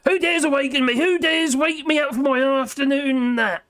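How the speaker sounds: booming genie demanding who woke him. Acted. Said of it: "I get you".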